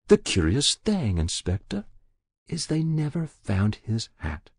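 put-on a guilty old woman pleading with the inspector; Muriel's voice. Muriel reveals the hat.

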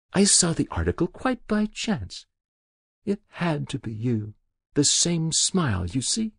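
put-on a guilty old woman pleading with the inspector; Muriel's voice. Muriel explains.

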